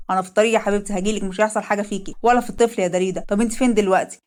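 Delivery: asking his wife what happened; worried husband. Acted. Leil reassures wife on phone.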